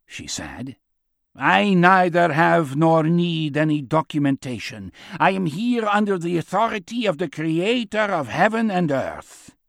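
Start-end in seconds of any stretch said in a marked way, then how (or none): 1.4-9.6 lightly voiced proclaiming old man; defiant old prophet. Old man refusing the guards' demand, defiant prophet. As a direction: declare your authority, a little raised.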